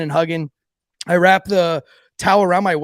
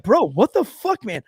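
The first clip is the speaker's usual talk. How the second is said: appalled friends; 4 semitones higher than usual. Retold or imitated. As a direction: mimic a disgusted buddy confronting him. Friends disgusted by the mess.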